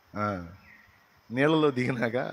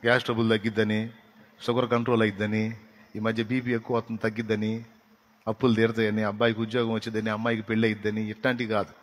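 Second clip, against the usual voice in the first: ordinary talk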